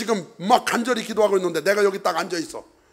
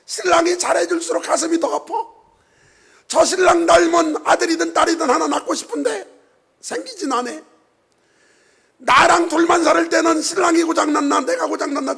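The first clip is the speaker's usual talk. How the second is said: Hannah's lament; 10 semitones higher, 4 dB louder than usual. Retold or imitated. Voicing Hannah's inner anguish.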